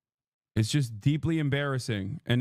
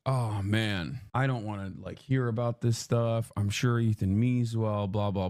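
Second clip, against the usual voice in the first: dismissive past self; 6 semitones lower than usual. Retold or imitated. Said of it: "I was like".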